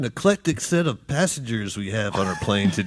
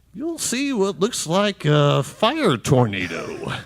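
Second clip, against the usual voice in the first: over the intercom. Acted. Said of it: "this is your captain speaking".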